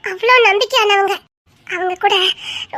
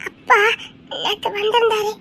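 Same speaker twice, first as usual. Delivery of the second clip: crying; 3 dB quieter than usual. Acted. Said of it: "அழாதேன்னு சொன்னேன்".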